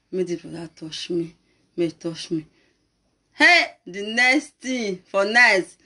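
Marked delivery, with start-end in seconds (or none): 0.1-2.4 low, soft retold prayer; muttered prayer. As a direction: imitate a secret plea to God. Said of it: "can't dey pray".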